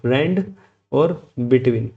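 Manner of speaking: "rand" and "between" said as separate stressed words; "rand", a pause, then "between"; split stress. Shown as a demonstration. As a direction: break "rand" and "between" apart for clarity. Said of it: "कोई इसको गलत मत पढ़ना".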